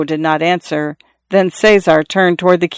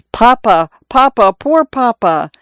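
higher, tearful plea to his father; crying son; 5 semitones higher than usual. A narrator's reading. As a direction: weep over the dying father. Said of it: "no more crying".

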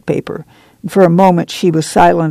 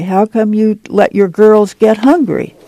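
higher, reproachful questioning; stern; 4 semitones higher than usual. A narrator's reading. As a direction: scold her firmly with the question. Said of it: "she said sternly".

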